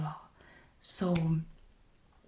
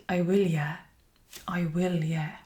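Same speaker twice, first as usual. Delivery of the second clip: sarcastic; 4 dB louder than usual. Shown as a demonstration. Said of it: "which would suggest that I'm going to do it".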